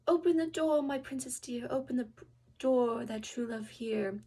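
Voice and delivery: loud, sing-song call at the door; calling through door. Acted. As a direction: call out to the princess behind the door. Frog at the door calls.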